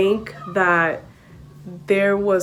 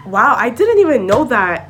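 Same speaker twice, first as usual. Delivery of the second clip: mock amazement; 3 semitones higher, 5 dB louder than usual. Believing the joke.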